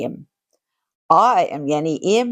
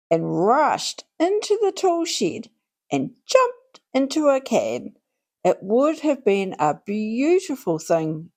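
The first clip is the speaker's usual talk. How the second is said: lively storybook narration for little listeners; reading to children. Acted. Host reading Peter Rabbit to children, lively storytelling. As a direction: read it like a bedtime picture book. Host reads picture book aloud.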